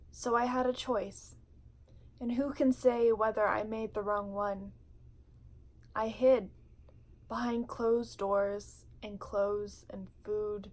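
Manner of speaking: measured, heartfelt poem reading with weighted pauses; spoken word poetry. Acted. Vlogger reading her poem Home to viewers, spoken word delivery. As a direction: read it like a confession, line by line.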